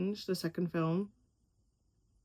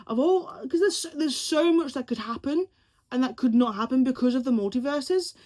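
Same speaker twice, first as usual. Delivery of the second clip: excited rush; 4 semitones higher, 3 dB louder than usual. Real, not acted.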